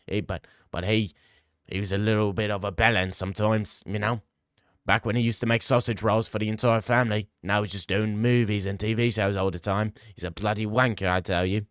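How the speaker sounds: mock South African accent, lightly done. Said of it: "What, what accent is that".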